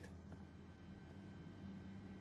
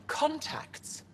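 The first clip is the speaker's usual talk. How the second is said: incredulous echo; 11 semitones higher than usual. Acted. Moshae doubts Ephra's contacts.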